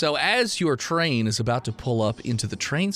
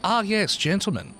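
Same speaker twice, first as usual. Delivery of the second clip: a raised, refined gentleman's greeting; posh gentleman. Acted. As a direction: greet them like a well-dressed host. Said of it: "and he's like".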